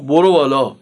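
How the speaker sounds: low, curt tough-guy command; thuggish Reza Shah. Retold or imitated. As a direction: play a street tough giving a short order. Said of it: "دوباره با همون حالتش گفت".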